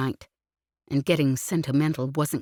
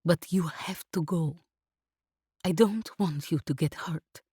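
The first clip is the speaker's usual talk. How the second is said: choked up; 3 dB quieter than usual. A narrator's reading. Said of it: "voice thick".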